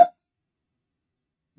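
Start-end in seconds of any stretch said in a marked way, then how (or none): 0.0-0.1 laughing as the goddesses brush you off. Retold or imitated. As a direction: chuckle through a mock brush-off. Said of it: "They say don't".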